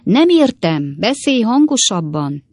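lightly voiced deaf old woman; screeching old lady. A narrator's reading. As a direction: demand it as someone hard of hearing. Deaf old lady demands louder speech.

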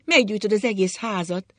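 high, loud escalating lament; wailing alarm. A narrator's reading. Wife fears the house will burn, wailing loudly. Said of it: "jaj, veszékelt anya".

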